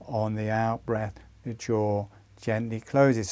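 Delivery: soothing step-by-step instruction; gentle demonstration. Shown as a demonstration. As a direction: talk them calmly through the jaw motion. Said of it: "by describing it and demonstrating".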